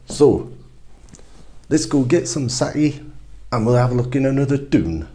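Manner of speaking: chirpy friend pointing down the street; eager mate. Acted.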